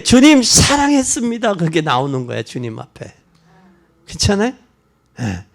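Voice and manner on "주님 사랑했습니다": fervent cry. Acted. Believer's confession to the Lord.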